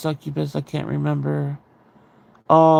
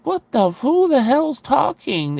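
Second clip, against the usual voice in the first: retold startled disbelief; 9 semitones higher than usual. Teller replaying reaction to brother's strange voice, startled disbelief. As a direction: act out a mildly startled double take.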